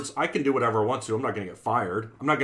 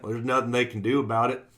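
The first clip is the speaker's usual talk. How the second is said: Southern accent. Shown as a demonstration. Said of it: "my best Southern accent".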